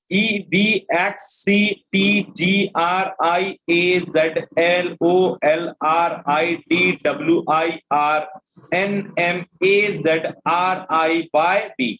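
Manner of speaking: slow, measured reading of a letter string; steady teacher dictation pace. Acted. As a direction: read each letter out slowly so students keep up.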